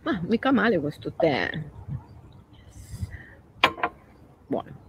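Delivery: talking between sips of tea; sipping tea mid-sentence; while sipping a drink. Real, not acted. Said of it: "bevo un altro sorso di tè".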